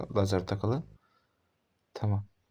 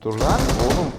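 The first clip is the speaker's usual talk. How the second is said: angry shout; 4 dB louder, much slower than usual. Real, not acted. Yelling at enemy player.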